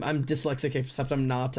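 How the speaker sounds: ordinary talk, nothing marked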